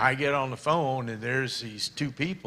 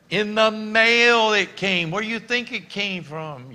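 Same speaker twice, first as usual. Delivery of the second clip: excited wife voice; 10 semitones higher, 9 dB louder than usual. Retold or imitated. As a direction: play the wife, wound up and shrill-high. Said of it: "he says / she".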